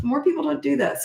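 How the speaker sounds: ordinary talk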